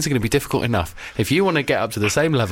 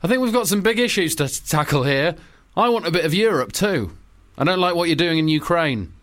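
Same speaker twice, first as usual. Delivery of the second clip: lightly voiced Obama, a bit higher; a hint of a presidential Obama; 3 semitones higher than usual. Obama ringing Putin to warn him over Ukraine, lightly voiced. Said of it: "I'm playing Obama".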